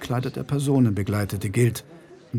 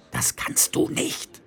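slow, much higher breathy hiss; hissed whisper; slower than usual. A narrator's reading. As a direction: hiss a warning, voice barely there. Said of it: "zischte Feucht".

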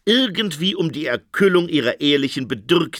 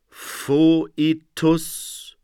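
moaned; 2 semitones higher than usual. A narrator's reading. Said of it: "stöhnte der Phönix".

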